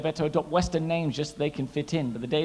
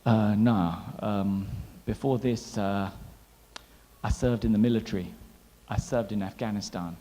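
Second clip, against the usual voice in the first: grave soldier; 5 semitones lower, slower than usual. Retold or imitated. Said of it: "He said".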